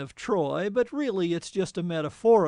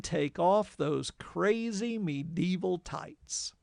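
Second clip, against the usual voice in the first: slow savoured quote; slower than usual. Shown as a demonstration. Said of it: "I also like the thirteenth line".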